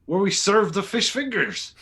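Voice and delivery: fussy captain. Acted. Captain character fussing.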